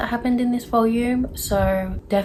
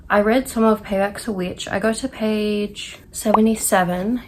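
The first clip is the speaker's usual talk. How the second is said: breathless and winded; out of breath. Real, not acted. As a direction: talk while catching your breath. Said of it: "I don't know why I'm so out of breath".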